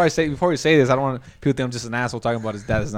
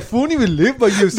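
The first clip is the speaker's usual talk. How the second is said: retold exasperated protest; 8 semitones higher, 6 dB louder than usual. Retold argument about distance.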